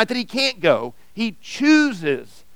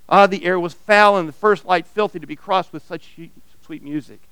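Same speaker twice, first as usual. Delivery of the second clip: expressive read-aloud of a parable; story reading. Acted. Pastor reading a story to his church, storyteller voice. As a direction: read the tale to the congregation, drawing them in.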